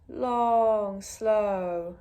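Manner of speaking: very drawn-out, sustained words; long and slow. Shown as a demonstration. Yoga teacher guiding the out-breath, long and slow. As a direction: let each word last like a breath out.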